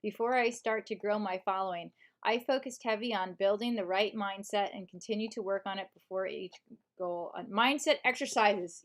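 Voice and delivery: measured audiobook narration; audiobook reading. Shown as a demonstration. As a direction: read the self-help book aloud as a narrator. Reads book in audiobook voice.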